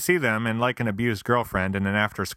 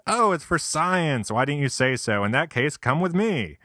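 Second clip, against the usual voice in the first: delighted gecko; 6 semitones higher than usual. Acted. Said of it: "the gecko says".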